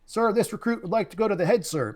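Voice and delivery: barked sir yes sir. Retold or imitated. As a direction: sound off like a boot camp recruit. Recruit formally addresses instructor.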